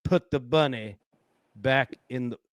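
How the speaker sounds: half-hearted Southern movie-hero imitation; Nicolas Cage Southern accent. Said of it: "But that Southern accent was something".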